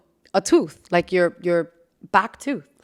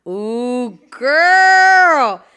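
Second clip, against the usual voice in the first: excited; 4 semitones higher, 5 dB louder than usual. Real, not acted. Excited exclamation.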